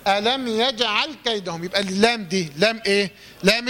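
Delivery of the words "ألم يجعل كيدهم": slow, measured tajweed phrase; deliberate teaching recitation; careful Quran recitation. Shown as a demonstration. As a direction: recite it slowly with a crisp jeem in يجعل. Recites the verse being analysed.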